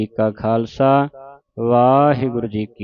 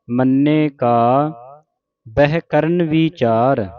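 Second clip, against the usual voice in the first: slow, measured model recitation; scripture recitation demo; much slower than usual. Shown as a demonstration. Teacher showing congregation correct Japji Sahib reading, slow recitation. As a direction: recite it slowly for learners to copy. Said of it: "ਵਿਚਾਰ ਉਚਾਰਨ ਕਰਨਾ ਹੈ".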